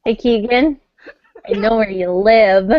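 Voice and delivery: mock menacing threat over a chuckle; creepy phone stalker. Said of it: "reach through that computer and slap you".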